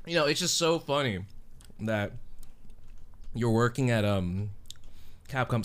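talking with a mouth full of ice cream. Real, not acted. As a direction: speak around a bite of ice cream. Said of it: "I'm eating some ice cream".

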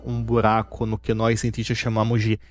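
lightly voiced supervillain scheming; Doutor Evil. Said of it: "o doutor Evil". (voz de vilão)

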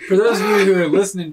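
hushed sports announcer, quick and bright; golf announcer voice. Acted. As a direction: commentate it like a golf broadcast. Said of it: "your golf announcer kind of description".

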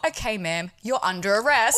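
lightly voiced officer, lifting at the end; mock-official announcement; serious authority. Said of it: "back in the serious authority voice".

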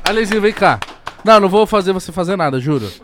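calling out. Real, not acted. Calling a friend over loudly.

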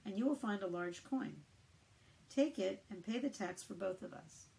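scripture reading. Acted. Reading a Bible passage aloud.

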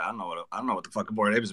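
chill, mellow, laid-back voice; a chill Logan Paul impression. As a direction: keep the voice really chill. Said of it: "give us a little Logan Paul".

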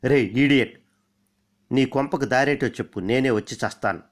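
fed-up friend barking into the phone; doubled anger. Acted. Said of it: "అతని కోపం రెట్టింపైంది".

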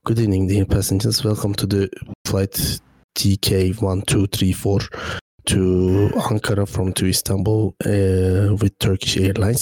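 airline captain announcement, English; pilot over the radio. Shown as a demonstration. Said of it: "Aksanlı değil ama, ... düz olmaz".

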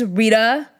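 "Rita" with the T softened to a D; American pronunciation. Retold or imitated. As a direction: imitate mom saying "Rita" the American way. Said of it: "say it how Americans would say".

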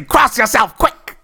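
high, loud Cockney shout. Retold or imitated. Minnie interrupts a monster wedding, loud Cockney shout. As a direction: burst in with a Cockney yell. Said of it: "Una O'Connor would pop out and say".

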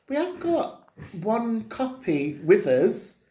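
put-on mild Spanish accent, drawn out. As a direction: imitate a Spanish filmmaker in a lightly put-on Spanish accent. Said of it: "in a Spanish accent".

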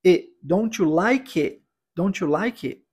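DON'T YOU LIKE IT as "donchu like ih"; swallowed final T. Shown as a demonstration. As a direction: drop the T at the end of IT. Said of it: "eu engulo o T". (DON'T YOU LIKE IT sem o T final)

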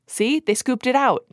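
high, amused echo of the phrase; amused teasing repeat. Real, not acted. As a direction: relish repeating it back. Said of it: "Keep saying it".

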